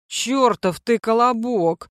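slow, rasping curse; hoarse wheeze. Acted. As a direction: croak it out winded. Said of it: "прохрипел я".

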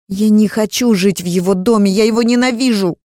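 high, loud desperate cry; tearful outburst. Acted. Girl refuses to live in his house, loud crying. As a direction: cry out in hatred.

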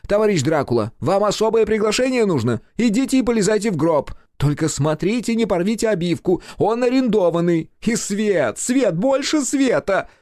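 very high, loud commanding shouts; shouted orders. A narrator's reading. Director ordering the actor into the coffin, high loud shouting. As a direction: yell orders across the set.

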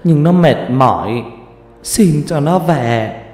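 a mother sobbing out how her daughter died; tearful grieving mother. Acted. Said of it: "Mẹ nó khóc lóc mếu máo".

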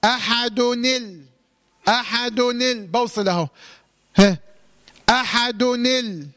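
أحدني ال- drawn out very slowly, the kasra on ni gliding into al; slow demo of أحدني ال-; slow linking demo. Shown as a demonstration. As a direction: stretch أحدني ال- so students hear the link. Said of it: "انطق بقى".

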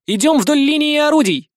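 high, loud command; commanding shout. A narrator's reading. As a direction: command the troop forward. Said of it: "скомандовал Никитка". (громкий приказ)

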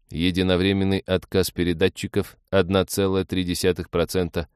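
a hint of eerie machine voice; machine irony. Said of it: "с жуткой машинной иронией".

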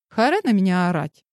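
usual speaking voice

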